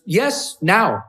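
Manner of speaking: imitated Icelandic woman, firm short answers; Icelandic accent. Icelandic woman insisting he explain, in an Icelandic accent. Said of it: "with the Icelandic accent".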